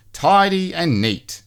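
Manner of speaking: high, slow, prim sing-song; Mister Tidy voice. A narrator's reading. Mister Tidy recites his motto, high and slow. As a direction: savour each word like a motto.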